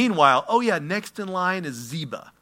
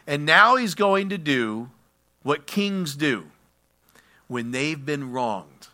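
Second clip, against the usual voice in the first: slow dramatic build; slower than usual. Real, not acted.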